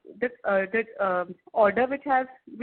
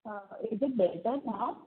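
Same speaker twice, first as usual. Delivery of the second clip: muffled; 5 dB quieter than usual. Real, not acted. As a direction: still muffled, as through a hand. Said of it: "No, it is still muffled".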